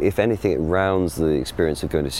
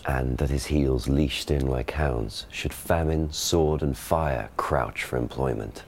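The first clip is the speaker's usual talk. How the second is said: received pronunciation stage reading; modern RP Shakespeare; 3 semitones lower, 3 dB quieter, slower than usual. Shown as a demonstration. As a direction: classic RP verse delivery. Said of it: "the speaker gives the modern pronunciation".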